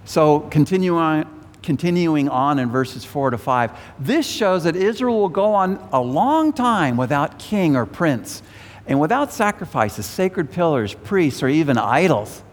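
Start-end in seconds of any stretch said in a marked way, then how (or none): 4.0-12.4 emphatic, higher-pitched Bible reading; scripture reading. A narrator's reading. Preacher reading prophecy to the congregation, emphatic scripture reading. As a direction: read the verse out with swooping emphasis.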